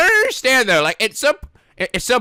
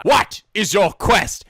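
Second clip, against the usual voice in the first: slow, weighty question, leaning on what; a lightly voiced Holy Grail bridgekeeper; bridgekeeper impression; much slower than usual. Quizzing the anime characters, in a slow mock bridgekeeper voice. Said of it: "Holy Grail flashbacks".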